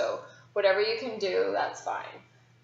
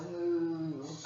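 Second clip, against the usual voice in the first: cow moo; 5 semitones lower, 6 dB quieter than usual. Shown as a demonstration. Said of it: "out like a cow".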